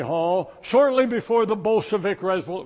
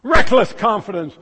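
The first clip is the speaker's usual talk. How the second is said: emphatic; 7 dB louder than usual. Real, not acted. Preacher hammers the phrase.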